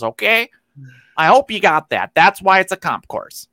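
nerd voice. Pretend. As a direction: lecture it like a smug podcast nerd. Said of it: "That was just me doing my nerd voice".

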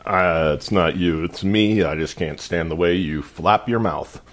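lightly voiced airline pilot; understated cockpit announcement. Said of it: "my pilot voice".

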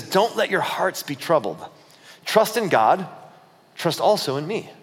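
slow, measured scripture reading; measured words of a teacher; scripture quote. Acted. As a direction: deliver it as solemn teaching, with pauses. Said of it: "this is Jesus talking to them".

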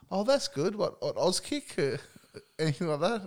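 Alistair Clarkson voice. Retold or imitated. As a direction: talk down to him, lightly mocking. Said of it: "Alistair Clarkson looked at me and said".

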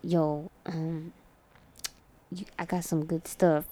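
a hint of a shady street seller; shady dealer voice. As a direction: sell it low like a sketchy dealer. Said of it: "And he goes".

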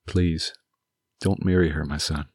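softly pleading with his son, fading at the end; mild pleading. Acted. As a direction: beg him gently, a touch of sorrow. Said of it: "he pleaded".

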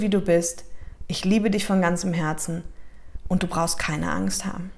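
soft, fading loving comfort; tender reassurance. Shown as a demonstration. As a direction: hold the child close with your words. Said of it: "dann sagst du".

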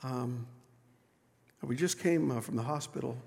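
barely above a murmur, lost for words after a death; grieving quiet apology. Acted.

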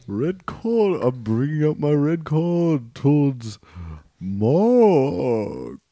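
slow ruling with stretched, swooping words; mock judge. Judge sending Mark off with a red card, mock judge. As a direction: draw out each word of the verdict.

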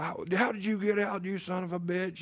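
high-pitched mock dad voice scolding the dog; hammed-up father shouting at the pit bull; imitating dad scolding the dog. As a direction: play the dad yelling at his dog. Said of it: "he's like".

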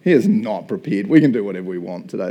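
loud, scheming devil; Satan ordering a small demon around; gloating Satan. Retold or imitated. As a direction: rub it in as a smug villain. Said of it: "imagine Satan doing".

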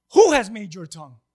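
a hint of a stern divine voice; commanding Lord. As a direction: declare it with authority. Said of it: "so the Lord says to him".

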